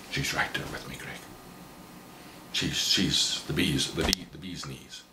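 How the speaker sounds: dreamy hush. Retold or imitated. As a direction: sigh it like a smitten man. Dreamy praise of girlfriend.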